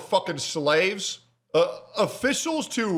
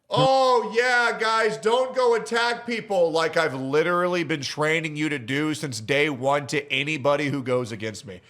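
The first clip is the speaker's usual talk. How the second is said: sarcastic, pitched-up mock innocence; mock him with fake innocence; sarcastic Hassan parody; sarcastic mockery. Sarcastically mocking Hassan's disclaimer.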